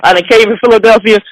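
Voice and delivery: rushed recited speech. Retold or imitated. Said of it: "I start reciting my notes".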